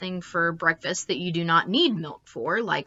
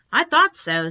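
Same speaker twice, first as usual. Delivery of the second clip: put-on little girl voice; 8 semitones higher, 5 dB louder than usual. A narrator's reading. Little sister's reply.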